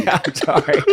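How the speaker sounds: talking while chewing; words round a crunchy bite; mouth full. Acted. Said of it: "I'm just eating this crunchy ass foot long".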